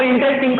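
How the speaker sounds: इंटरेस्टिंग split in three: in, tres, ting; three syllables. Shown as a demonstration. Teacher counting syllables for pupils, इंटरेस्टिंग in three separate beats. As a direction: pause between the three parts of इंटरेस्टिंग. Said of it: "तीन syllable हो गए".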